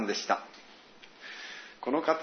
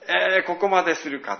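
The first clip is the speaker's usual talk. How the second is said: retold taken-aback reaction; 4 semitones higher, 4 dB louder than usual. Preacher recalls embarrassment at the dialect translation, mock dismay. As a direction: react as if they've gone too far. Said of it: "ちょっと恥ずかしかったですよ".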